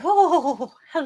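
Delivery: mock sultry deep hello; deep voice impression. To friends, imitating Zach's sexy voice, lightly. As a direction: put on a seductive deep voice, lightly. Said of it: "that deep voice out".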